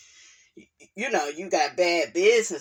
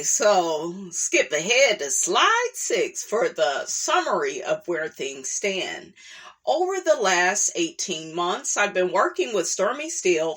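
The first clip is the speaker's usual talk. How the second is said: formal read-aloud voice; reading a document aloud. Acted. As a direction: read it like a business report. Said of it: "back to my reporter voice".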